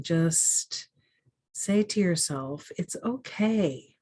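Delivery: calm meditation guide, long pauses between phrases; guided meditation. Acted. Guide leading people-pleasers through a meditation, calm and measured. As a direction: guide gently, unhurried, leaving space after each phrase.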